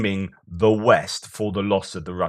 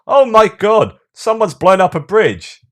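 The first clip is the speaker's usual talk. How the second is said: much higher and louder, hammed-up gasp of horror; mock shocked holidaymaker; 12 semitones higher, 10 dB louder than usual. Mocking a Russian tourist upset that a bridge was blown up, hammed-up shriek. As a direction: squeal it like a pampered tourist outraged by the war.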